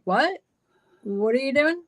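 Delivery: high, alarmed disbelief; alarmed shout. Retold or imitated. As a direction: call out in shock at what he's doing. Confronting man holding gas can.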